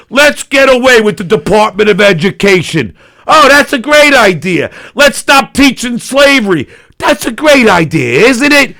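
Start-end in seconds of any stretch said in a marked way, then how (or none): 3.2-8.8 dripping sarcasm; mock praise, sarcastic. Real, not acted.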